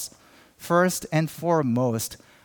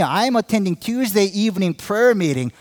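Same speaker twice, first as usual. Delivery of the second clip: loud bragging; 5 semitones higher, 4 dB louder than usual. Retold or imitated. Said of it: "It comes like this".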